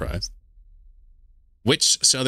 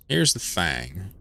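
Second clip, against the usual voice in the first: Southern drawl; 4 dB quieter, much slower than usual. Pretend. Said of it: "I have a halfway decent meme version".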